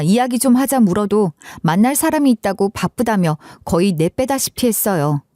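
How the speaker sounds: ordinary delivery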